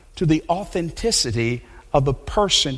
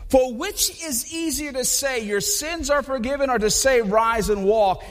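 Jesus confronting them; 6 semitones higher than usual. Retold or imitated. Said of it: "He said".

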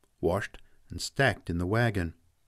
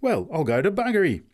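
much higher, louder astonished oath; amazed oath; 9 semitones higher, 6 dB louder than usual. Acted. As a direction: gape at the news. Man astonished.

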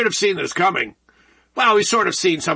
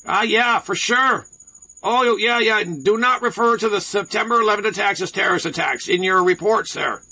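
mock-agreeable Canadian accent; Canadian broadcaster voice. Host mimicking CBC's instructions to reporters, mock Canadian broadcaster voice. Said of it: "I'll read it in my Canadian broadcaster's voice".

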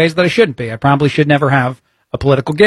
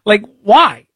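usual speaking voice

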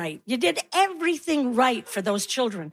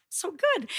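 quiet self-satisfied; 6 semitones higher, 6 dB quieter than usual. Retold or imitated. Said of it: "you're thinking".

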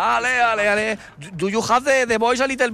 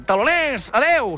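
sign-off demo; 2 semitones higher, slower than usual. Shown as a demonstration. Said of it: "tú tienes que decir".

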